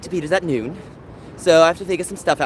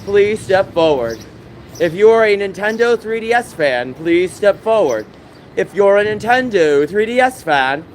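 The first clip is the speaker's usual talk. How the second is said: calling out; 3 semitones higher than usual. Real, not acted. Calling out down a line.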